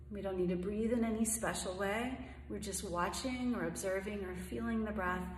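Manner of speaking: calm, unhurried meditation voice with long pauses; guided meditation. Acted. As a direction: gently guide them through each breath, leaving room between phrases.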